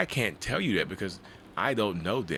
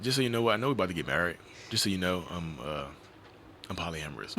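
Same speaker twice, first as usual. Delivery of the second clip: sheepish fiancé confession; 3 dB quieter than usual. Acted.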